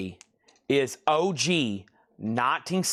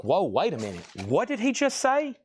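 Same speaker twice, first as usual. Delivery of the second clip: goofy bidder voice; 4 semitones higher than usual. Retold or imitated. Seller mimics viewers in a silly put-on voice of shock. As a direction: play a cartoonish stunned viewer.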